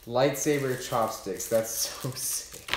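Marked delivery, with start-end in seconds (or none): 1.5-2.7 breathy laugh through the words, slow and soft. Real, not acted. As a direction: laugh it out in disbelief. Laughing over the lightsaber chopsticks.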